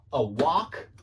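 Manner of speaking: slow American-style "walk" with an open ah; British speaker trying an American "walk"; American pronunciation. Shown as a demonstration. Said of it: "that does sound American to me".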